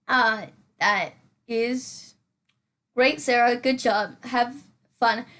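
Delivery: slow, lightly put-on voice cheering herself on; self-praising aside. Vlogger congratulating herself while building, in a slow mock voice. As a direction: pat yourself on the back in a mock coach voice. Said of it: "I do genuinely talk to myself".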